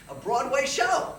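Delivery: high, loud, drawn-out reveal; grand announcement. Acted. Friend phoning to offer a Broadway outing, excited slow reveal. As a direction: stretch it out with big excitement.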